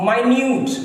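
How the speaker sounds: "minute" said my-newt, stress on newt; meaning tiny; adjective minute. Shown as a demonstration. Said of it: "अब माइन्यूट हो गया".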